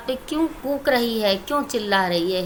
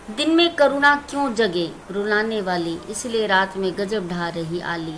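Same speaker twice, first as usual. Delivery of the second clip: poem recitation; 3 semitones lower than usual. Shown as a demonstration. Teacher recites poem stanza.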